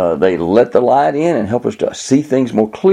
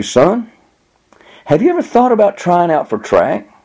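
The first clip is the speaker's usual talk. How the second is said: lightly voiced coach, pitched up; a coach sounding out a student, higher in pitch; track coach; 8 semitones higher than usual. Coach approaches boy in acted story.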